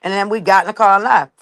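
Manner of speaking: panicked disbelief. Retold or imitated. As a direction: spill it out in a rush, freaking out. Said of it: "So I'm like".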